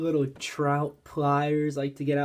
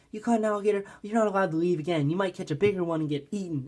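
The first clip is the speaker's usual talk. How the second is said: high at first, then rushed mock scolding; imitated freak-out; 4 semitones higher, faster than usual. Family scolds him back at the house, mildly imitated alarm. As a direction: blurt it like alarmed relatives. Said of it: "everyone was freaking out".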